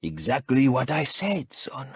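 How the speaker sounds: father dismissing his son's question; matter-of-fact. A narrator's reading. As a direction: state it flatly. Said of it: "matter-of-factly".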